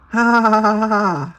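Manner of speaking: spelled-out mock laughter, pitched high; fake laugh. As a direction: laugh on cue to be polite. Forced laugh at bad joke.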